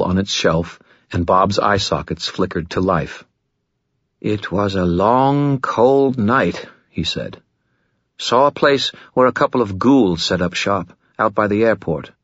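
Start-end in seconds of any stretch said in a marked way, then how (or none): 4.2-6.7 chatty wisecracking skull, higher pitched; lightly voiced smug spirit; Bob the skull voice. 8.2-12.1 chatty wisecracking skull, higher pitched; lightly voiced smug spirit; Bob the skull voice.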